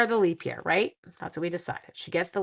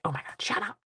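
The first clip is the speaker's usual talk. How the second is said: imitating friend; 6 dB quieter than usual. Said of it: "She'll be like".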